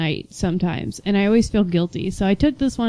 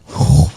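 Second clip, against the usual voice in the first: loud sucking whoosh; noisy imitation of sucking food from a pipe; slurping suction noise; 6 semitones lower, 7 dB louder than usual. Shown as a demonstration. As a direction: suck air in hard like slurping.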